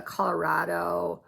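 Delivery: "Colorado" with a slight ah in the third syllable; own pronunciation. Shown as a demonstration. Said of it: "I have a little bit of an ah".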